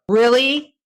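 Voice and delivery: can't believe your luck; reacting to the neighbor's answer with high, loud amazement; delighted disbelief.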